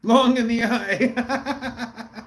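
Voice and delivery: words mangled by a held tongue; holding tongue with fingers. Shown as a demonstration. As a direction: say it while pinching your tongue. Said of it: "Hold your tongue and say that word".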